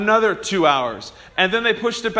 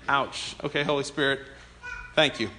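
rueful; 6 semitones lower, 9 dB quieter than usual. Retold or imitated. Wife's question stings him.

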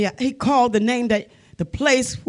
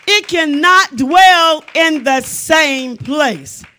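slow, weighty, word-by-word declaration; slow emphasis; slower than usual. Real, not acted. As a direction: spell out the point slowly and firmly. Repeats the point for emphasis.

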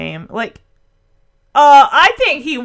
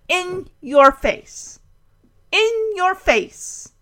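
slow, drawn-out gloat; smug, slow in-your-face taunt; 6 semitones higher, slower than usual. Real, not acted. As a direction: rub it in slowly. Gloating at the doubters.

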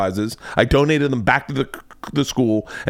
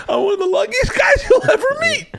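1 cocky boast. Retold or imitated. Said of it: "I say to everyone around me".

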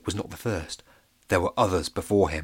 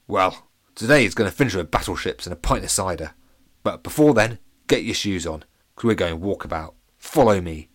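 grumpy pirate; 3 semitones lower, 4 dB louder than usual. Acted. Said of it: "said the grumpy pirate".

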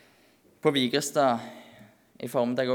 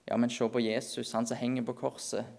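gentle counter; 5 dB quieter than usual. Acted. Answers the inner accuser.

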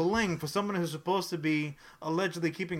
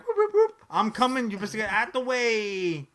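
siren whoops much higher, then loud warning; mock siren driver; 6 semitones higher, 4 dB louder than usual. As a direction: cut through traffic like an ecto rig. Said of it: "'cause he's like".

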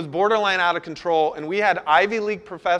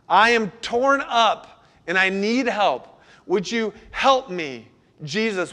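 slow, a touch raised plea for help; mild pleading; 3 semitones higher, slower than usual. Acted. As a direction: ask for help as if torn up inside. Voicing the cry of those in pain.

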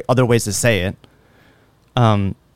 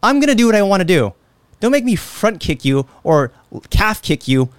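tough gym bro; 4 semitones higher than usual. Retold or imitated. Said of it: "all that shit's like".

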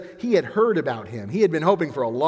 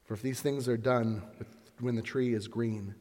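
quiet lament; 3 semitones lower, 6 dB quieter than usual. Acted. Jesus to weeping women.

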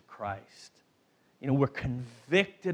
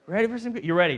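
rallying the crowd; 5 semitones higher, 4 dB louder, much faster than usual. Real, not acted. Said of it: "I won't give it if you're not ready".

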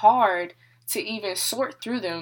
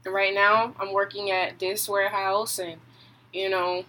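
rattling off her résumé, partly rushed; imitating how she sounds listing her plans; mock self-rundown. Mimicking herself telling people about school and work, brisk rundown. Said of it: "let me tell you how I sound".

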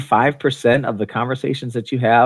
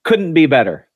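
bright, louder stock reply; mock cheery; 4 semitones higher, 5 dB louder than usual. Friend answering how's it going, mock cheery. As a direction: sell the fake happiness.

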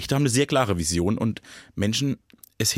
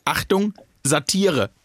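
mock warning label; 4 semitones higher, much slower than usual. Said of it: "wo in Klammer hinten dran steht".

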